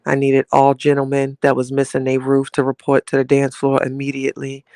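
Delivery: mock club DJ calling out to the floor; playful DJ shout-out to the room; DJ announcement. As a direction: hype up the crowd like a lounge DJ. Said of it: "D J Chatty Lounge".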